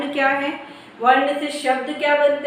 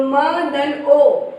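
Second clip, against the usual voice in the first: very slow, each letter spelled apart; drawn-out phonics breakdown; slow letter-by-letter spelling; much slower than usual. Shown as a demonstration. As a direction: spell it out slowly for children. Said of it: "मतलब म में ओ की मात्रा".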